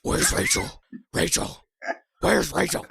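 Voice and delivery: high loud mock calling for her. Searching for Rachel in a pod, high mock calling.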